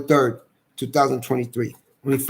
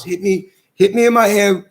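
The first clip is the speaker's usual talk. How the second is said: retold yell; 4 semitones higher, 4 dB louder than usual. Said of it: "I'm yelling on video".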